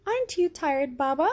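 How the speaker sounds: put-on lightly sleepy child voice. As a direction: ask like a tired little girl. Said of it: "Yasmin asked, yawning".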